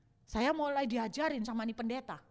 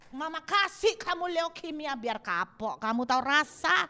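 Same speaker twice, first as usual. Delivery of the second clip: mock cruel parent; 5 semitones higher, 5 dB louder than usual. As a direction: play a spiteful parent scolding.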